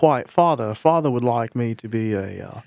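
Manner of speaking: put-on posh, upper-class British accent. Riffing on a British inner monologue from watching The Crown: posh British accent. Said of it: "my inner monologue is just British".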